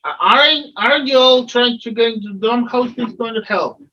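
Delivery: a hint of a fretful farmer. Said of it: "and the farmer interrupts".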